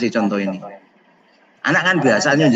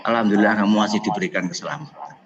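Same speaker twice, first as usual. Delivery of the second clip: wise words; 6 semitones lower, 4 dB quieter than usual. Acted. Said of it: "kata yang bijak".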